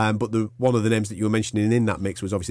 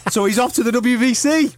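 gleeful promoter voice; 11 semitones higher, 3 dB louder than usual. Retold or imitated. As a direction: play the smug promoter. Continuing impression.

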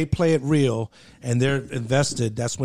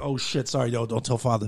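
hushed apology; 2 semitones lower, 6 dB quieter than usual. Retold or imitated. Apologizing, begging secrecy.

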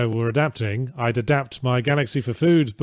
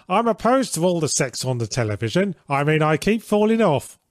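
Monty Python lady voice; 5 semitones higher than usual. Acted. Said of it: "In your best Monty Python lady voice".

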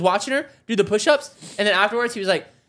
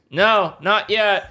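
slow, drowsy no not yet; sleepy refusal; 3 semitones lower, much slower than usual. Retold or imitated. Wife sleepily refuses to get up, slow. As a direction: groan it out half asleep. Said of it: "She goes".

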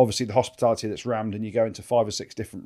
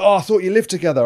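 imitating the fan; 8 semitones higher, 8 dB louder than usual. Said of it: "He's like".

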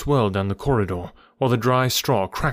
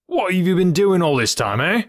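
high, angry interrogation; indignant grilling of a culprit; furious detective; 8 semitones higher, 4 dB louder than usual. A narrator's reading. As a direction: demand an answer, pitch raised. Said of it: "furious red face of the angry detective".

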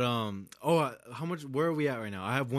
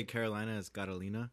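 Spanish accent; 3 semitones lower, 7 dB quieter, faster than usual. Shown as a demonstration. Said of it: "say it with an accent".

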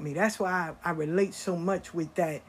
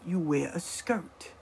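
slow emphatic rule; 3 semitones lower, 5 dB quieter, slower than usual. Shown as a demonstration.

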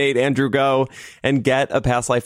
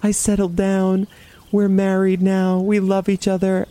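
mildly tearful reenactment, pitched higher; retold crying; 6 semitones higher than usual. Woman recounts her vision to listeners, mock crying. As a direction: imitate crying, voice lifted and held high. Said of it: "then I just start crying".

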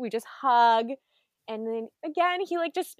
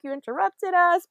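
higher, louder mock complaint; mock annoyed; 7 semitones higher, 7 dB louder than usual. Chip and Dale scolding Donald, mock angry and louder. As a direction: play hurt at being interrupted. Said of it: "like, angry 'cause they're like".

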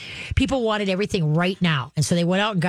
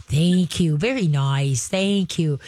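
praise demo; slower than usual. Shown as a demonstration. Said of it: "you give a little tickle".

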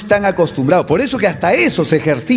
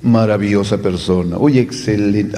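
fake praise; 9 semitones lower than usual. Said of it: "¿Qué te pareció mi amiga?".

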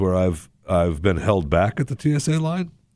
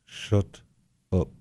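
whispered, much softer shut up; hushed warning; 3 semitones lower, 8 dB quieter, slower than usual. Retold or imitated. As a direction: urge a friend to be quiet under your breath. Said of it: "my friend squeezing my arm going".

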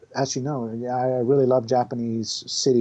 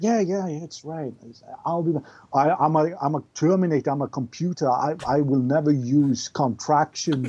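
Arnold impression. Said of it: "Arnold Schwarzenegger is really fun to do".

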